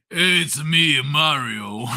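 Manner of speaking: lightly voiced crude cartoon neighbour as game plumber; a hint of cartoon neighbour, falling at the end; Carl from Aqua Teen. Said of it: "Carl from Aqua Teen".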